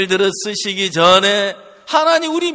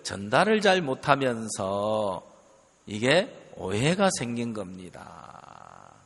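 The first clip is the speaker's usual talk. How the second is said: retold calm explanation in a lower, softer voice; explication posée; 9 semitones lower, 6 dB quieter than usual. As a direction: lay it out step by step, low and measured. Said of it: "설명을 좀 드렸어요".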